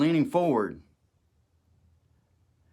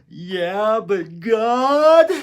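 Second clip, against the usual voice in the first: higher and louder, a desperate cry; despairing plea; 9 semitones higher, 11 dB louder, much slower than usual. Retold or imitated. Prisoner pleading with Jesus, higher and louder in despair. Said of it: "in my despair".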